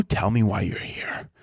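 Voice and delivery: low, threatening interrogator; mock interrogation. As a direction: press a captive for answers, low. Acted interrogation of a captured seagull.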